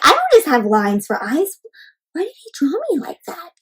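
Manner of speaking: put-on hushed, hurt little boy whispering. Teacher voices the boy's hurt question to the class, in a whisper. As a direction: whisper it like a wounded kid. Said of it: "It's like".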